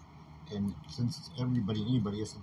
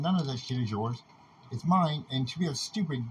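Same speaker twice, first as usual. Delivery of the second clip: angry outburst; 4 dB louder than usual. Real, not acted. Heated rant, claiming ownership.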